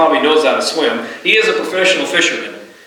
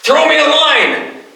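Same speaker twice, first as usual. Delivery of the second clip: calling out; 6 semitones higher than usual. Pretend. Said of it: "He did not turn around and say".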